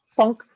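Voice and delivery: a timid, half-hearted "Funk"; feeble hit sound. Retold or imitated. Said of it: "I'm like".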